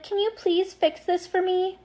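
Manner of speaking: slow high-pitched mock plea; mock pleading. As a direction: plead sweetly, imitating a needy friend. Acts out friend's pleading request.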